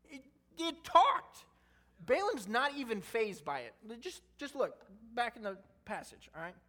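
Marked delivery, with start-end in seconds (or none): 0.1-1.5 amazed. Real, not acted. Preacher marvels at talking donkey.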